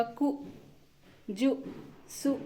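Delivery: कु, जु, सु each with a brief u; short u. Shown as a demonstration. Teacher showing how the small u sign sounds, short u in कु, जु, सु. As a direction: cut the u short in कु, जु, सु. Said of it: "और उच्चारण होगा".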